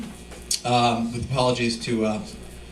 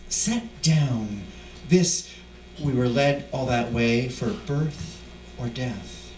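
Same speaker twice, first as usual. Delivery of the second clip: measured, solemn reading of a poem; poetry reading. Acted. Poet reading to an audience, solemn poem voice. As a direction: let each line settle, grave and slow. Reads his own poem aloud.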